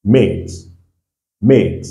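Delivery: made with an "ay" vowel; English long A. Shown as a demonstration. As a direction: model made twice, pausing between. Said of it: "va avoir son son en anglais".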